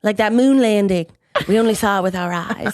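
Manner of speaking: a hint of a paranoid conspiracy theorist; lightly hammed-up conspiracy nut, half laughing. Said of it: "It's my conspiracy theorist voice".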